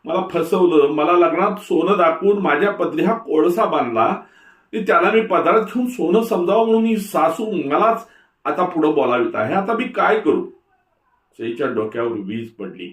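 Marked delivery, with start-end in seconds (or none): 0.0-10.5 much higher, louder anguished wail; wailing lament. A narrator's reading. Bride wailing that she was deceived, high and loud. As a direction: cry out at being cheated. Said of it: "आकांत करू लागली".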